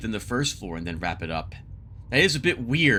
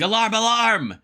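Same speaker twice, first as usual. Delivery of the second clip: high, loud cry for help; acted shout, pitched up and stretched on the last word; yelling alarm; 9 semitones higher, 5 dB louder than usual. A narrator's reading. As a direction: call it out like a servant raising the alarm. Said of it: "he starts yelling".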